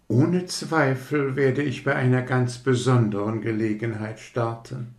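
a hint of lofty self-importance; haughty rocket. Rocket boasts to the others, mildly haughty. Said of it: "schaute hochmütiger denn je".

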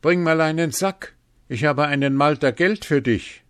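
high, loud excited hail; calling out. A narrator's reading. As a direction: hail someone coming towards you with great news. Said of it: "rief Hans ihm entgegen".

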